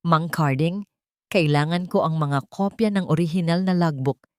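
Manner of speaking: a hint of a captain's firm command, building at the end; steady resolve, mildly voiced; authoritative and determined. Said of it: "puno ng otoridad at determinasyon". (bahagyang matatag at may awtoridad na tinig)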